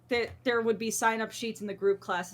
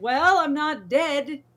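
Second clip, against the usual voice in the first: slow, dry, higher put-on deadpan; deadpan smartass reply; 5 semitones higher, 7 dB louder, slower than usual. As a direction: answer the trainer with a dry joke. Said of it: "And I'm just like".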